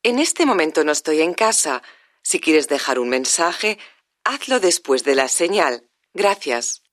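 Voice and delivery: polite recorded voicemail greeting; answering machine greeting. Acted. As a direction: read it like a phone message. (saludo de contestador automático)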